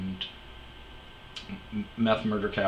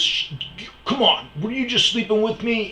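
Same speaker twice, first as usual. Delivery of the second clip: much higher, louder mock yell of a stranger; imitating the dude; 13 semitones higher, 6 dB louder than usual. Stranger yelling at him over the weed eater, imitated high and loud. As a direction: squawk it like the guy who came up yelling. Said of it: "And he goes".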